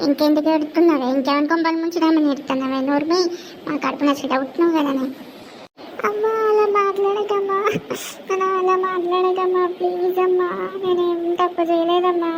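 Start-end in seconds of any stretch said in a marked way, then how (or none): 6.1-12.3 put-on higher girl's voice, mildly tearful pleading; pleading daughter. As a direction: beg her mother to believe her. Daughter begging again.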